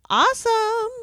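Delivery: high, loud, over-the-top cheer; mock enthusiasm. Organizer mocks the cheap hire's happy outcome, fake excitement. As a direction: gush it loudly as if thrilled. Mock delight before saying no.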